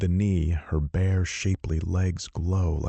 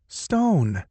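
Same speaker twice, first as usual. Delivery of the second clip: higher, scandalized woman's cry; admonishing gasp; 12 semitones higher, 4 dB louder than usual. Acted. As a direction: clutch your pearls and scold. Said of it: "pearl-clutching gasp".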